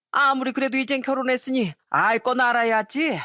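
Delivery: mildly hammed drunken scolding; tipsy elder airing a grievance; drunk father-in-law. Drunk father-in-law scolds his son before the daughter-in-law, mildly indignant. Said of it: "만취한 시부가 하는 얘기에".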